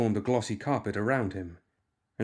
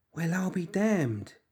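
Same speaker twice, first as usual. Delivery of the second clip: put-on small, high, piping childlike voice; 8 semitones higher than usual. Narrator reads a child's line to a woman on the floor, in a child's piping voice. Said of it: "in a child's piping voice".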